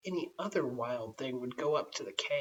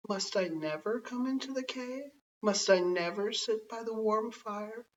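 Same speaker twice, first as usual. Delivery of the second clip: higher, pleading, a touch of put-on sadness; a sly cat faking sorrow in a higher voice; mock sorrowful cat; 4 semitones higher than usual. Cat pretending sorrow to win the woman over, higher and pleading. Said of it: "Then Cat pretended to be sorry and said".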